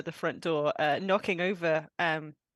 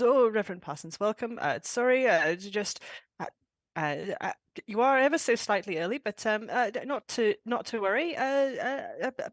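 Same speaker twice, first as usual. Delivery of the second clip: lightly voiced flustered butler, stammering; Jenkins; 2 semitones higher than usual. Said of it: "Jenkins comes over and says".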